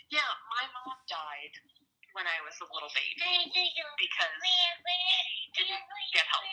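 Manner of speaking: lightly voicing a grieving grown daughter; a hint of a child's voice, climbing high; imagined daughter. Imagined daughter's future words.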